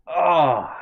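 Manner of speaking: relieved groan while leaning back; stretching groan. Real, not acted. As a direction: let out a real stretching groan. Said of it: "my back's cracking".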